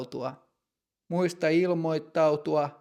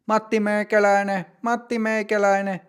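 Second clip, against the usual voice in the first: raised, higher call across the room; calling out a name; 6 semitones higher, 3 dB louder than usual. Acted. Doctor calls Matti in from the waiting room, raised call. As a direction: call him in from the waiting room, loud and high. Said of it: "huutaa Matin nimeä".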